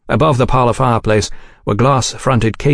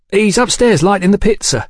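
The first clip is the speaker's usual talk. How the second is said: put-on much higher, boyish proud voice; a boy boasting of the old dog; eager young waiter; 10 semitones higher than usual. A narrator's reading.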